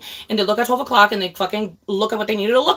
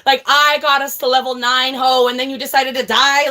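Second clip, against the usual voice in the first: angry gamer complaint; 3 semitones higher, 4 dB louder than usual. Retold or imitated. Streamer re-enacts blaming her friend for dying, angry. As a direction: berate the teammate who died, fed up. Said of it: "I would get so angry".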